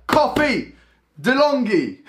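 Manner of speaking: high, playful announcing call; mock fanfare. Unveiling the machine to viewers, as a high mock fanfare. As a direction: call each word out like a jingle tag. Redoes hype intro after da-da-da.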